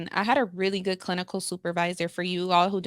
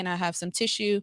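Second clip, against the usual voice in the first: ordinary talk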